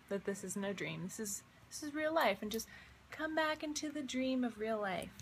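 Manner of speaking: ordinary talk, nothing marked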